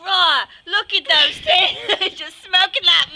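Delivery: mock Australian accent, loud and drawn out; Steve Irwin. Imagining the crocodile hunter watching smokers, put-on Australian accent. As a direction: imitate an Australian crocodile hunter, slowly at first. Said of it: "He would have came and be like".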